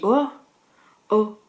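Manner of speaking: put-on broad Norman country accent. Back home in Normandy, slipping into Norman accent. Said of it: "je me retrouve à faire des pans".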